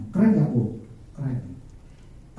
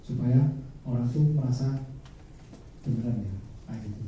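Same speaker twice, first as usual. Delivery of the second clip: lowered intonation; 3 semitones lower, 6 dB quieter than usual. Shown as a demonstration. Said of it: "intonasi harus direndahin".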